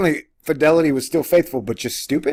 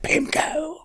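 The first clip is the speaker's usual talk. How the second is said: "pimco" said softer and higher so the p doesn't pop; softer to spare the mic; 14 semitones higher, 5 dB quieter than usual. Shown as a demonstration. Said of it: "the word is, like, exploding in the mic".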